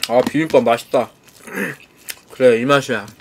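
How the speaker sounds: speaking between bites; talking while chewing. Real, not acted. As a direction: mouth partly full of rice. Seen 1: looks down at rice bowl with chopsticks, mouth closed, chewing.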